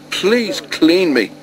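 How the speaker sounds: high, slow, plaintive begging; pitiful plea. A narrator's reading. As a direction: beg miserably, drawing it out. Sticky Thomas begs to be cleaned.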